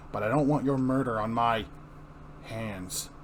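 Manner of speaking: grim hero leaning in hard; a hint of an urgent Batman. Batman grabs his hand.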